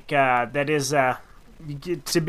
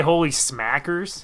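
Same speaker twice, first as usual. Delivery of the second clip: incredulous echo; 3 dB quieter, slower than usual. Retold or imitated. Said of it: "Did they really say".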